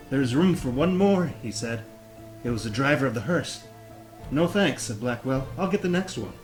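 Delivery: reading while holding a plank; strained, braced from planking. Real, not acted. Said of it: "let's hold that plank".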